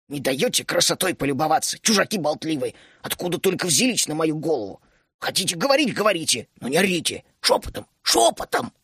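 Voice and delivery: put-on cranky old gnome grumbling, rising at the end; old gnome scolding chattering outsiders; grumpy gnome. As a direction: nag the noisy strangers.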